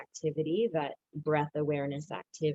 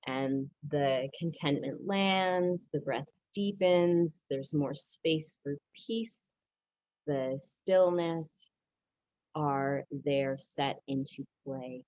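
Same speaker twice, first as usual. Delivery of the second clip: gentle guiding; 3 semitones lower, slower than usual. Acted. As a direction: ease them into stillness. Guiding a settling moment.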